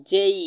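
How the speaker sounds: জেই spoken as the letter name. Shown as a demonstration. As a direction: say জেই clearly as a model. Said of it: "এই জেই লেটারটিকে আমরা". (জেই উচ্চারণ স্পষ্টভাবে)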